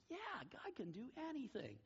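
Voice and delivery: put-on high, soft child's voice; imitated little child. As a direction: agree eagerly like a small kid. Child retold agreeing eagerly.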